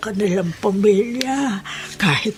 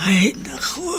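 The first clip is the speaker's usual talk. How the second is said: breathy, whispered lament; sighing whisper; 2 semitones lower than usual. Acted. Old woman alone after the visit, whispered sigh. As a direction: let it out as a weary whispered sigh.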